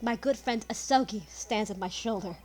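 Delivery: measured reading of a grave confession; lightly voiced character reading his will; Van Zieks with a twist. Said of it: "do the Van Zieks voice with a bit of a twist".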